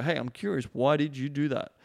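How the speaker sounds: easy, non-judging question; gently curious. Shown as a demonstration. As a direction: ask it casually, just wanting to understand. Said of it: "it's kinda, like, really curious".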